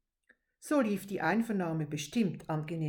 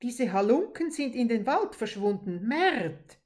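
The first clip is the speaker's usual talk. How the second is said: out of breath; 3 semitones higher, 4 dB louder than usual. Acted. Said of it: "erschien etwas atemlos".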